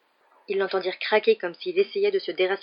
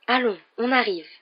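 lightly raised, wheedling tone; coaxing; 4 semitones higher than usual. A narrator's reading. Ron to his failing flying car, coaxing. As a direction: gently coax it along. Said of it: "dit Ron à ton cajoleur".

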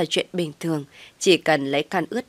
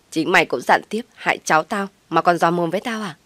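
put-on a touch of a shrill old woman straining to sound tough; mother-in-law snapping back, mildly voiced; defiant retort. Mother-in-law cornered but still snapping at the brother, mildly defiant. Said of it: "vẫn cố gân cổ lên mà nói".

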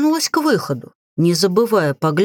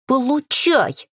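slow, high, rasped battle cry; hoarse cry; 6 semitones higher, slower than usual. A narrator's reading. Witch swinging poker at chest, hoarse cry. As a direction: draw it out hoarsely, pitched high. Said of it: "прохрипела".

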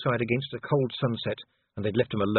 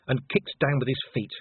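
usual speaking voice

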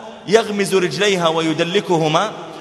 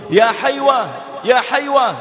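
higher-pitched imitated call; mock-shout the name twice, pitch lifted; retold mild shout; 5 semitones higher than usual. Mother calls from the mosque window, mild shout. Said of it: "ثم تصرخ به تقول".

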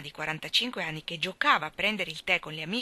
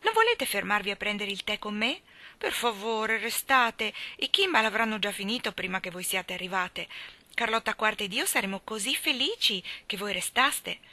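lightly exclaimed invitation; eager exclamation; 2 semitones higher than usual. Acted. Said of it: "Poi esclamò".

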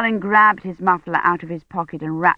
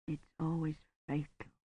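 much softer, near-whispered frail words; faint dying voice; 3 semitones lower, 19 dB quieter than usual. A narrator's reading. Badri in his sickbed to Dunworthy, a faint dying voice. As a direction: breathe it out with no strength.

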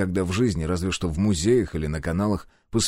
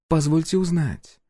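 higher, slow and polite; courteous, smiling question; polite smile; 9 semitones higher, slower than usual. A narrator's reading. Empress politely questions the hero, smiling. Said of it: "вежливо улыбнулась императрица".

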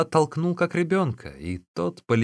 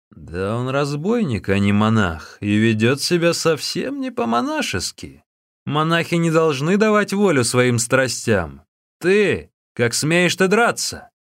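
louder, higher scolding; indignant scolding; 6 semitones higher, 5 dB louder than usual. Acted. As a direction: point and rebuke sharply. Angry visitor scolds the monk.

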